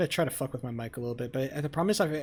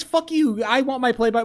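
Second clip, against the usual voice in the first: a mocking imitation of a rude demand, kept loud; mocking Cryo; 8 semitones higher, 7 dB louder than usual. Streamer mocking Cryo's demand to the chat, loud sneering impression. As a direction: sneer his words back at him. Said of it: "He comes in last minute and just says".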